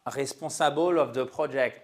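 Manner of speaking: English words with French pronunciation; caricatured French accent. Shown as a demonstration. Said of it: "mon accent français". (anglais avec un accent français caricatural)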